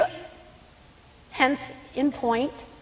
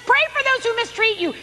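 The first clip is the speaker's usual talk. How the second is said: emphatic; 12 semitones higher than usual. Shown as a demonstration. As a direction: proclaim it, punching "Pray". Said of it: "it says pray, it says".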